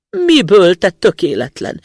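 high, loud snapped question; fuming outburst. A narrator's reading. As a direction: flare up at the foolish son. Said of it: "tüzeskedett az öreg". (felcsattanó, dühös kérdés)

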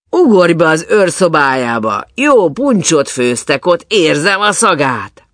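high, loud, eager urging; lively shouted invitation; calling out. A narrator's reading. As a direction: egg a companion on loudly. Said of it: "kiáltott rá a negyedik".

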